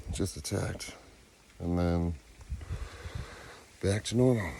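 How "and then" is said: usual speaking voice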